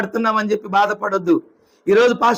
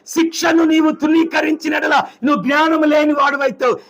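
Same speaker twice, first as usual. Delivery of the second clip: fiery exhortation; 3 semitones higher than usual. Acted. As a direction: drive each command home to the children. (పిల్లలకు బిగ్గరగా హెచ్చరిక)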